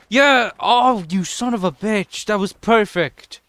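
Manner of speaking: high, loud victory cry, words stretched out; elated triumph. Real, not acted. Gamer celebrating a perfect trick, elated shout. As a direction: crow over the win, slow and emphatic.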